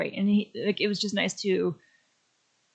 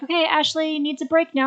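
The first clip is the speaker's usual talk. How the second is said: excited; 9 semitones higher, 5 dB louder than usual. Retold or imitated. Retold thought at signing line.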